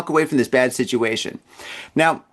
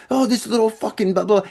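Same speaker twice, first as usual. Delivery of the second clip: imitated smack talk; 6 semitones higher than usual. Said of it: "they started talking smack about me".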